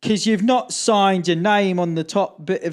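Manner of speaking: high, slow, spelled-out mimicry; pedantic official. Border officer explaining unsigned passport, pedantic. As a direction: imitate a stickler explaining the rule.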